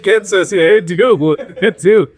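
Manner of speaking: a high, hammed-up Australian accent; mock Australian accent. Mimicking the meditation app woman in a mock Australian accent. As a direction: do a playful fake Australian drawl. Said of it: "That accent".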